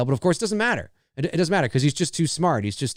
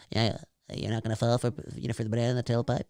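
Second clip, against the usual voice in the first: soft, fast, limp take on the quote; weak version; 4 semitones lower, 8 dB quieter, much faster than usual. Retold or imitated. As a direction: say it meekly, no conviction. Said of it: "You gotta say it stronger than that".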